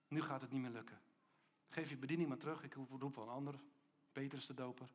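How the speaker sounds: low, subdued mock resignation; mock disappointed Jesus. Imagined Jesus giving up on doubting Johannes, low mock disappointment. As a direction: hand down the verdict quietly, lightly acted. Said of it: "Jezus zei niet".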